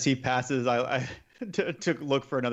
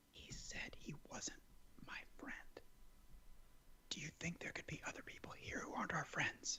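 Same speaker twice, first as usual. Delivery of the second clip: put-on obvious, hushed, conspiratorial childlike stage whisper; 4 semitones higher, 22 dB quieter than usual. Retelling speaking to the fighter, in an obvious childlike stage whisper. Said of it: "I'm stage whispering, so it's super obvious, like a child".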